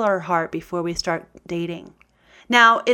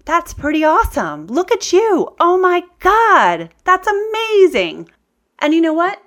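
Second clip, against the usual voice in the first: gushing self-praise; 8 semitones higher, 6 dB louder than usual. Acted. Woman parenting herself over her own painting, gushing with praise. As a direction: cheer yourself on like an over-the-top proud parent. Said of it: "I'm the one who has to say".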